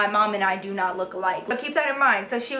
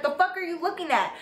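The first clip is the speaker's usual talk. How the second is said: higher, quick mock yell without the volume; retold angry yelling; 6 semitones higher, faster than usual. Mom challenging the teacher in the office, mock yelling. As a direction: imitate a mother confronting someone, pitched up. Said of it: "my mom started yelling".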